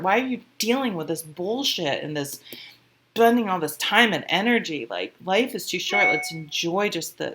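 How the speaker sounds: mildly exasperated, emphatic mock scolding; acted scolding universe. The universe giving a wake-up call, mild acted scolding. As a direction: plead with them to stop wasting life. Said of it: "this is the universe going".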